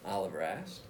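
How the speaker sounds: put-on lively read-aloud voice for young listeners; reading to children. Principal reading a picture book to students, lively storytelling voice.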